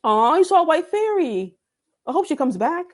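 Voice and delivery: excited squeal. Real, not acted. Reacting to a fairy sighting.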